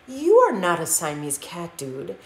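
put-on lightly done Spanish accent, slow at the end; a playful, hammed Spanish accent. Skippy talking to his mirror in a light Spanish accent. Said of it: "using his very best Spanish accent".

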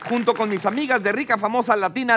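anuncio de programa, rematando los nombres; presentador de televisión. Acted. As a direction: presenta invitados y juegos con energía moderada. (anfitrión leyendo el elenco con brío)

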